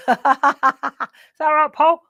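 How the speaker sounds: P=A; through a wall. Real, not acted. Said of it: "he can hear me through the wall".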